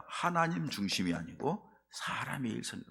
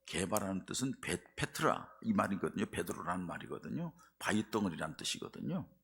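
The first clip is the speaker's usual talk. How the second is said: usual speaking voice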